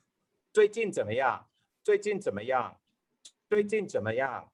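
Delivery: "最近怎么样" repeated as one natural melody; sentence drill. Shown as a demonstration. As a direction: say "最近怎么样" as a whole pattern. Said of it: "learn that pattern of the sentences".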